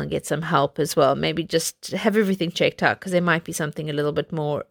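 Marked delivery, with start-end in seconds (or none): 3.0-4.6 struggling through a throat full of spit; choking on spit. Real, not acted. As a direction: voice catching on spit. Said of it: "I'm choking on my own spit".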